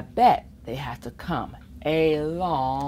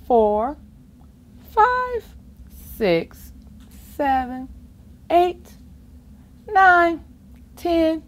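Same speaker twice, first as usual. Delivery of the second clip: excited counting; 9 semitones higher, 4 dB louder, slower than usual. Acted. Counting fingers, climbing.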